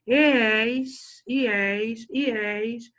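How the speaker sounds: "E és" fused into one syllable; "E és" repeated slowly as a single blended sound; vowels run together. Shown as a demonstration. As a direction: glide "E és" together like one new word. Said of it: "Parece até que eu criei uma outra palavra".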